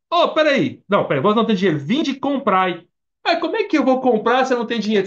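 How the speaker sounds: high, loud interrupting protest; acted incredulous questioning; baffled objection.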